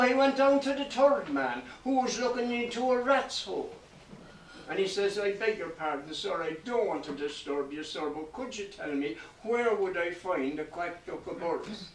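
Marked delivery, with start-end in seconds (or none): 5.2-11.9 soft, low, deferential request; hushed, humble politeness; meekly apologetic. Acted. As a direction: tread carefully, asking very gently. Meekly begs the third man's pardon.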